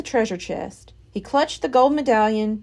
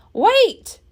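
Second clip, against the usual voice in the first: high loud cry; Captain Bones crying out to his men; cried out; 12 semitones higher, 6 dB louder than usual. A narrator's reading. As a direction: cry out after the boat. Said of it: "cried Captain Bones".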